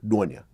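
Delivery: Nonya, tongue flipped on the roof of the mouth; tongue-flipped first sound. Shown as a demonstration. Host demonstrating his dad's name, tongue-flipped Nonya. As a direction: start Nonya between a D and an L. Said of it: "flip the top of your mouth with your tongue".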